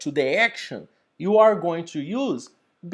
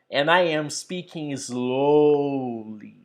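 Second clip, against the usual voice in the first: slowed demo; 4 semitones lower than usual. Shown as a demonstration.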